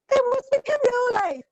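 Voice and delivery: high, wondering reveal; storyteller marveling at the find; amazed discovery. A narrator's reading. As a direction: gasp it out in awe. Boy discovers gift, gasping.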